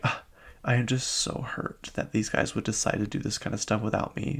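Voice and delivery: mock wounded, soft voice; playing the victim. Castmate complaining she was left out, mock wounded. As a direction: imitate someone softly acting hurt. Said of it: "Whitney's playing this victim".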